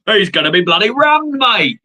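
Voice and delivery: high excited exclaim; high, excited outburst. Acted. Mock outburst about bus.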